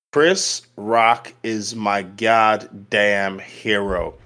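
drawn out slowly and low for emphasis; slow emphatic declaration. Real, not acted. Podcaster lowering and slowing to praise Chris Rock.

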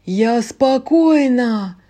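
loud, slow drawn-out yell. Acted. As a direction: bellow it at her. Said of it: "проорала Луиза".

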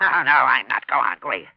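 loud frightened denial; panicked yell. Acted. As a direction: shout it to drive the voice away. Miser panics at the voice.

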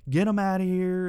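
high-pitched imitated yelling at the man; hammed-up angry yell; mock yell. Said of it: "she just starts yelling".

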